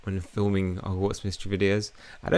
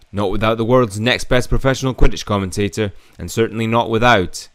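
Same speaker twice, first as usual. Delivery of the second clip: lightly voiced eager sports commentator; a hint of a brash commentator; Murphy McNully voice; 5 dB louder than usual. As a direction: hype up the team like a commentator, a bit louder. Reads commentator Murphy's lines.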